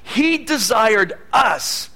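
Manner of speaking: preaching shout; emphatic shout. Real, not acted. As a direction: proclaim it slowly.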